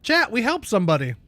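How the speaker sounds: talking while chewing pretzels; mouth full. Real, not acted. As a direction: talk through a mouthful. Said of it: "Sorry, chat, I'm eating pretzels".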